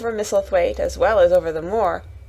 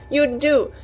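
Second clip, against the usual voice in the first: higher, gushing with delight; delighted cry; 6 semitones higher than usual. A narrator's reading. Mary gushing over the robin, high and delighted. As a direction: praise the robin in a high happy rush. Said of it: "she cried out".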